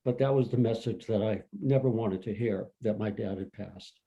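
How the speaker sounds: quiet, fading voice holding back tears; getting emotional. Real, not acted. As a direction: let the words drop away as the grief catches. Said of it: "I'm getting emotional".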